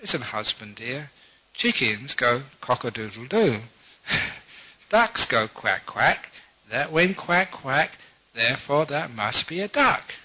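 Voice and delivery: patient wife explaining to her husband; lightly acted long-suffering patience; great patience. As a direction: spell it out with measured, mock-sweet patience. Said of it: "with great patience".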